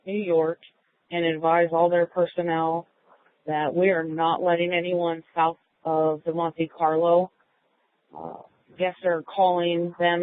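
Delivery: radio call to dispatch; filtered handheld radio voice; police radio. Real, not acted. Unit radios control.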